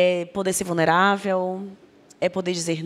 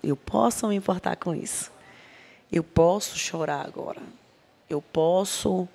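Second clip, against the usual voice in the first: gentle self-reassurance. Retold or imitated. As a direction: talk yourself kindly through the tears. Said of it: "Eu dou uma respirada e falo".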